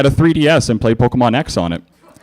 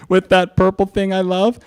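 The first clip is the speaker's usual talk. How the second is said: higher, slow teasing reveal; trolling punchline; 8 semitones higher than usual. Acted. Spike trolling Twilight with slow smug reveal. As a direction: stretch out the joke smugly.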